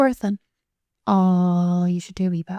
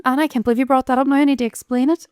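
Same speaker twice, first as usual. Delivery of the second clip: fast, higher flustered protest; 4 semitones higher, faster than usual. Real, not acted. Put on the spot by her friend, fast flustered protest. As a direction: rush it, caught out.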